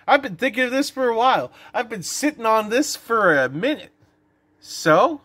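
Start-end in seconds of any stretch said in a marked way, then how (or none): 0.1-3.9 higher, fast excited reply. Retold or imitated. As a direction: blurt it out, hyped up. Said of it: "And I'm like".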